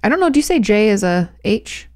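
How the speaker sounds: usual speaking voice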